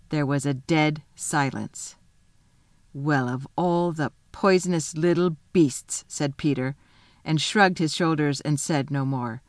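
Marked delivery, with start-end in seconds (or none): 2.9-6.0 slow, weighty, understated scorn; disgusted rebuke. Acted. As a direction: condemn him slowly, without shouting. Peter rebukes Edmund for lying.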